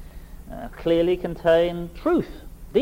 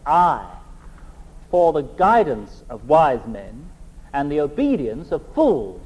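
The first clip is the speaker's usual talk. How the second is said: slow, stern Scottish burr on the punchline; Scottish warden turning on the freshers with a scowl; Scottish accent, scowling; slower than usual. Retold or imitated. Warden warning new students, stern Scottish accent. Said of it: "he would add in his Scottish accent".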